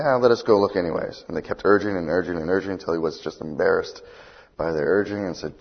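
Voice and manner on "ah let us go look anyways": high, loud begging of the men; pleading men. Retold or imitated. The fifty men begging Elisha to let them search, loud pleading. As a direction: beg him, raised and eager.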